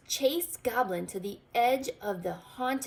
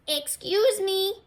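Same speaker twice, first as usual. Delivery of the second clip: voice from the cave; 11 semitones higher, 7 dB louder than usual. A narrator's reading. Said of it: "said a voice".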